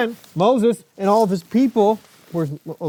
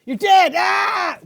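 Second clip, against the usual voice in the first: playful shout; 10 semitones higher, much slower than usual. Pretend. Uncle playfully telling Georgie she's dead.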